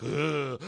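imitated beast grunt; mock monster noise. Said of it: "he's like a beast".

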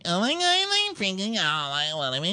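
high-pitched imitated panic; mock freaking out. Insecure woman telling all the girls, high mock panic. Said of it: "she's freaking out now".

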